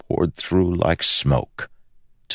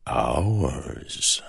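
purring; 4 dB quieter than usual. Acted. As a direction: purr it with quiet triumph. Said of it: "purred the king".

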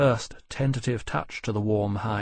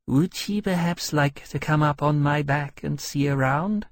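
a slightly higher, politely inquiring dragon voice; friendly dragon; 4 semitones higher than usual. Acted. Dragon offers a visitor a ride, politely eager. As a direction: make a courteous, innocent offer.

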